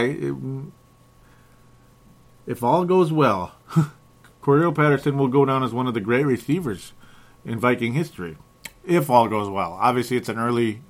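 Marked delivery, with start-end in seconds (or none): 2.5-8.4 excited. Real, not acted. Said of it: "pardon me for being a little bit too excited".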